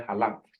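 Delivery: halakt with the stress on LAKT; ha-LAKT, second syllable stressed. Shown as a demonstration. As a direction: lean on the last part of halakt. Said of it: "second syllable".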